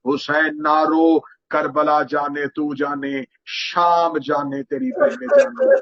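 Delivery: slow, steady consoling of a brother; princess comforting. Acted. Zainab calls from the house telling Husain not to cry, slow and consoling. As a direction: soothe him slowly, firm and tender. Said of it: "शहजादी की घर से आवाज आई".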